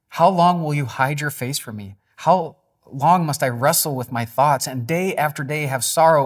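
high, loud crying out to God; anguished lament. Acted. Reading David's anguished psalm aloud.

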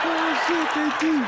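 high, loud stunned realization. Retold or imitated. You realize the Virgo really talks like that, loud and amazed. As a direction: blurt it out, amazed.

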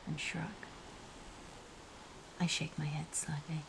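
hushed whispering storyteller; whispered narration. A narrator's reading. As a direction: whisper the story close to the mic.

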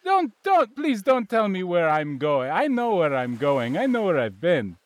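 put-on hammy Russian accent; proud explorer in Russian accent. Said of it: "You sound very Russian".

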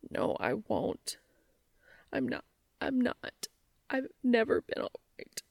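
choked, fighting tears, half whispered; words breaking as the sob rises; a tearful confession, breath catching. Acted. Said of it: "voice catching on a sob".

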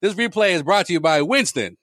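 put-on laughing old ad announcer voice; mocking an old TV cigarette sponsor read, laughing. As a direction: read it like a vintage sponsor tag. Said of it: "it'd be like".

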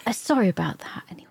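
hasty apology. Real, not acted. Apologising for the interruption.

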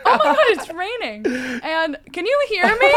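laughing. Retold or imitated. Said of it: "mimicking the deaf hookup".

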